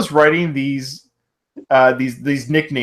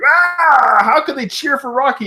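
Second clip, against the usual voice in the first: mock angry; 10 semitones higher than usual. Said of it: "He gets angry".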